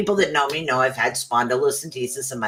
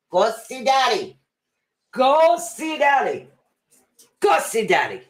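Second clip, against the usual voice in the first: sweet dog talk; 9 semitones higher than usual. Real, not acted. Telling the dog to go see daddy, high coaxing pet voice. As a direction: coax the pet in sing-song.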